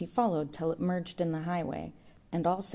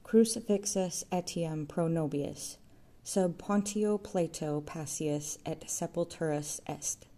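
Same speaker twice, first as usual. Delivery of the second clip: steady declaiming. A narrator's reading. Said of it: "declaimed steadily ahead".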